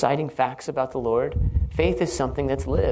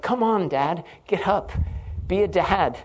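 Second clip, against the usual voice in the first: put-on higher, louder pleading kid voice; impatient child; 5 semitones higher, 3 dB louder than usual. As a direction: whine like a kid who wants dad up. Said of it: "And it's like".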